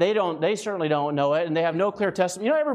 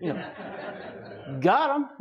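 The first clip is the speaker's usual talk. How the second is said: mock gloating; 4 dB quieter, slower than usual. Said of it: "it's just like".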